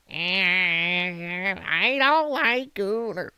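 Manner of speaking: slow, mocking hag impression; screeching hag voice. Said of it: "that disgusting screeching hag voice".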